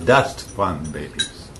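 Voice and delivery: slow, stress on babies; slow joking emphasis on babies. Shown as a demonstration. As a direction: lean on the word babies. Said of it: "I put the emphasis on babies".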